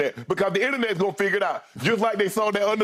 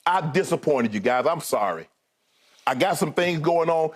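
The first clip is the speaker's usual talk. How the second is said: sincere apology demo; 3 semitones lower than usual. Shown as a demonstration. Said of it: "just speak from your heart".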